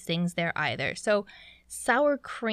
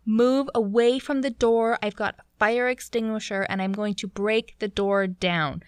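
lightly raised mock-commanding voice; emphatic retold order, short of a full shout; yelling captain; 3 dB louder than usual. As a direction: imitate a captain projecting orders through a door. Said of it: "He's talking so loud and making a scene".

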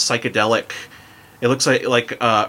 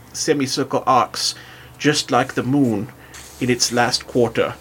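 put-on German accent. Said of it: "do a German accent as I read".

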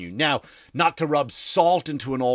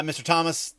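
mock butler; 3 semitones higher than usual. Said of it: "that's what my butler would call me".

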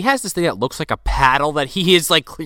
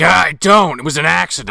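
mock loud, higher-pitched protest; exasperated protest; 3 semitones higher, 6 dB louder than usual. Son protesting to Mom about the music, mock exasperation. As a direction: burst out denying it, hammed-up.

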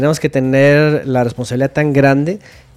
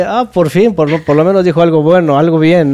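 higher-pitched retold relief; relieved exclamation; 3 semitones higher, 3 dB louder than usual. Retelling his first hearing of the song, relieved. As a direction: exclaim it as a retold "at last" reaction.

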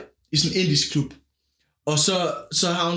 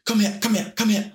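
insistent mock call to strangers, a bit higher; intense calling out; 4 semitones higher than usual. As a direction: imitate her pushy beckoning. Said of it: "på sådan en intens måde". (efterlignet intens kalden)

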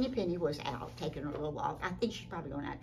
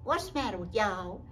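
lightly voiced turkey, higher and louder; turkey's question; 6 semitones higher, 6 dB louder than usual. Turkey lurkey asks the runners, lightly voiced. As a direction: ask it as a puzzled turkey.

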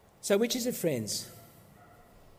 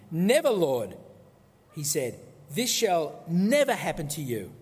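mild rebuke. Retold or imitated. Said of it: "began to rebuke him".

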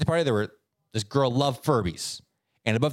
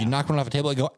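usual speaking voice

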